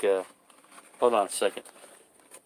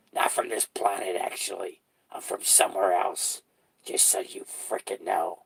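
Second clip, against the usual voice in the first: creepy clown monologue; 3 semitones lower, 3 dB quieter than usual. Acted. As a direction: threaten softly like a clown who's watching you. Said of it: "that's pretty good acting there ... With the, with the clown".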